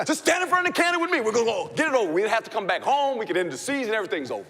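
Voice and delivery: high, loud, fast, laughing through it; hammed-up unhinged pep talk, giggling; mock crazed rant. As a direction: rant like a coach who's lost his mind. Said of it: "Coach has lost it now".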